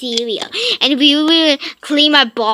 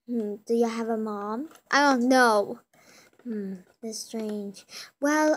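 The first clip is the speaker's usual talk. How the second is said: police officer. Acted. Officer answering kid's call, calm official. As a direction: play a dry police dispatcher.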